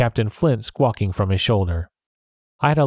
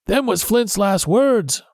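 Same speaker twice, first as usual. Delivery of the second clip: frightened; 11 semitones higher, slower than usual. A narrator's reading. Frightened pirate recalls ghost.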